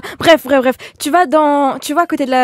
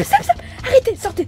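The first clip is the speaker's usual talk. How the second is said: commanding; 7 semitones higher than usual. Acted. Ordering kids out.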